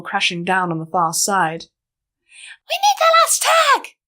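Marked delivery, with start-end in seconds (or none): 2.7-4.0 high, loud call over the shoulder; a flier shouting back to her passengers; shouted back. Acted. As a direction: yell it back while flying hard. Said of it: "she shouted back".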